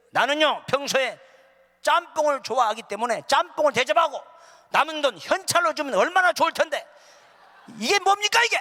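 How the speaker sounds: loud, high-pitched indignant rant; scowling complaint. Acted. Guest preacher complaining about the costly meal, scowling indignation. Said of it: "내가 막 인상을 쓰면서".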